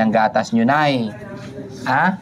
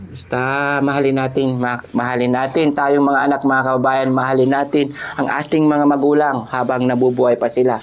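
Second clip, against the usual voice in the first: sincere appeal. Acted. Closing message to viewers.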